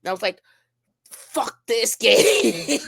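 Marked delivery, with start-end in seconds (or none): 1.1-2.8 drawn-out groan. Retold or imitated. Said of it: "And then I really said".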